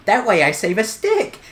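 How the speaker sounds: high, loud gleeful shout; excited. Real, not acted. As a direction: crow it in triumph. Gleeful game moment.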